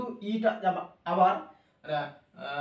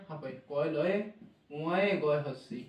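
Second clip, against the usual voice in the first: slow letter spelling; 4 semitones lower, 4 dB quieter, slower than usual. Shown as a demonstration. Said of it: "ᱩচ্ᱪᱟᱨণ ᱠᱷᱟᱱ".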